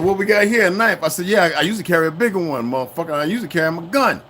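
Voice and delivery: high, loud scornful taunt; mock the cop over the knife; retold taunt. Taunting the cop about his knife, loud.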